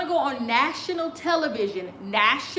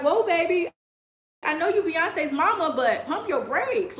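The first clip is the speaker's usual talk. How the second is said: sassy warning; 3 semitones higher than usual. Retold or imitated. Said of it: "and I was like".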